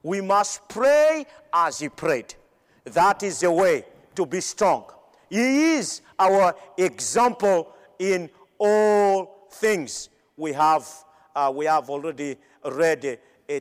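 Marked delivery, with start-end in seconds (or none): 0.0-2.4 slow, each word weighted, PRAY and PRAYED pressed; slow emphatic repeat. Shown as a demonstration. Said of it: "It is a must". 5.3-10.1 drawn out, every word weighted; slow emphatic. Acted. Preacher stressing the key truth.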